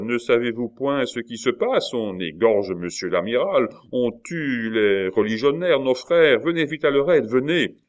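loud, high cry for help; urgent appeal. Acted. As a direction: raise the alarm, rallying him to come. Innkeeper cries for urgent help.

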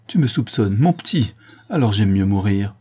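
distressed plea, lifting on "mon petit"; wounded protest with a touch of tears; mildly acted sobbing. Old nurse suspected by her boy, lightly sobbing. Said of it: "tomba à genoux et sanglota".

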